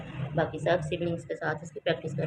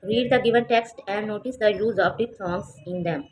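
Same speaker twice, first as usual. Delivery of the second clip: every word spaced out; slow instruction reading; 3 dB louder, much slower than usual. Shown as a demonstration. Teacher reading the exercise to students, slow. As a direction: read the task aloud slowly.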